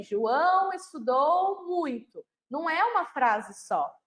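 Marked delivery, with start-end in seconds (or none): 0.0-2.2 slow, deliberate reading of the example; measured teacher demo; slow example sentence. Shown as a demonstration. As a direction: read it out word by word for a child. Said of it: "Quando eu pego aí".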